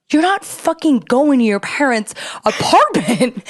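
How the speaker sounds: high, tearful-tantrum reenactment; freaking out. Retold or imitated. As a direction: act out an incredulous meltdown. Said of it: "I start crying".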